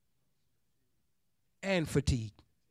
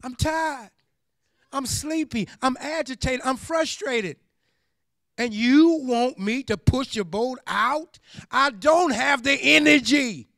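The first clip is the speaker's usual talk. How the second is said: higher, whiny complaint about being tired; fed-up fisherman; 4 semitones higher, 4 dB louder than usual. Retold or imitated. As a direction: moan like a worn-out fisherman who wants to quit. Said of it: "when they tired".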